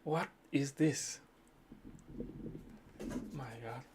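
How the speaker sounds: disbelief. Real, not acted. Shocked by an ugly chart.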